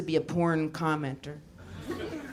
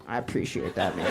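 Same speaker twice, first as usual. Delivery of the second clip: much lower, understated thanks; low mock gratitude; 12 semitones lower than usual. Comic thanking the one supporter, low mock gratitude. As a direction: drop low for a hammed-up heartfelt thank-you.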